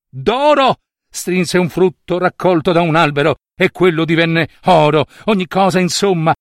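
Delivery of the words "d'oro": excited exclamation. A narrator's reading. Narrator exclaims gold echo.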